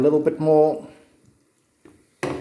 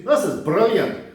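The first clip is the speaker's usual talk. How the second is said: mock Scottish accent; 3 semitones higher than usual. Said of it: "my brilliant Scottish accent".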